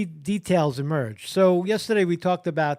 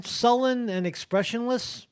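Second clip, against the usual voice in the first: "sullen and expressionless" repeated higher with a doubtful rise; incredulous question; 5 semitones higher than usual. Real, not acted. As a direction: scoff at the phrase, questioning rise. Mocking repeat of article wording.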